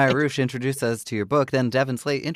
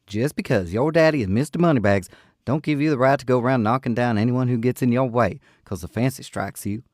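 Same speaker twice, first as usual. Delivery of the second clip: shouting; 4 dB louder than usual. Acted. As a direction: yell it at the drunkard, defiant. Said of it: "the young woman was shouting".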